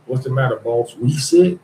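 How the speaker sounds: a hint of a fawning servant, last words lifting; lightly voiced servant asking in mock concern; fawning house slave. House slave asking the master, lightly voiced mock fawning. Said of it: "That was them".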